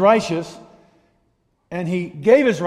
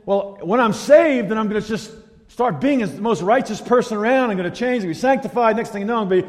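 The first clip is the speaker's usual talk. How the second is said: overconfident new believer; 6 semitones higher than usual. Acted. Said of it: "And their expectation is".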